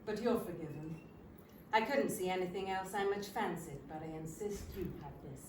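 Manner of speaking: a hint of a Canadian accent; Canadian twang. Stranger insisting she keep the sandwich, light Canadian accent. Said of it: "in his lovely Canadian twang".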